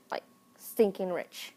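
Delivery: whispering stinking rich; whispered aside. Acted. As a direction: lean in and whisper it. Aside about rich parents.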